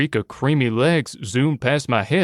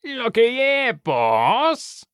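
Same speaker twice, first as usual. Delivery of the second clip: high, whiny Cockney henchman; whining Cockney wolf sidekick; 12 semitones higher, much slower than usual. A narrator's reading. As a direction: whine it up high to the boss in Cockney. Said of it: "the gray one with a whiny voice and the same kind of accent".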